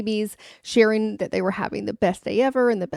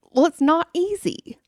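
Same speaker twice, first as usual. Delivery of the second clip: "not easy" said with truth and honesty; sincere honest answer; 9 semitones higher than usual. Pretend. Answering a friend's how are you, sincerely. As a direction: admit it frankly but lightly. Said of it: "really with truth and honesty say".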